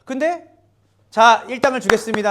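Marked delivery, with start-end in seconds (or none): 1.1-2.3 큰소리로 알리는 주인. Retold or imitated. 주인이 일당을 나눠주는 장면.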